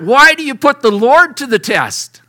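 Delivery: loud, indignant questioning; loud rebuke. Acted. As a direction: challenge the crowd, raising the voice. Moses rebukes people again.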